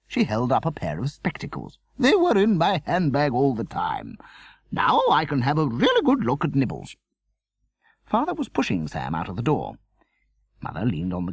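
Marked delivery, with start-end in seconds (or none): 2.0-6.9 Veronica voice. A narrator's reading. Veronica character voice.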